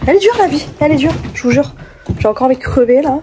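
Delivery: high, whiny complaint about life; mock lament. Real, not acted. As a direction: wail it like a drama queen.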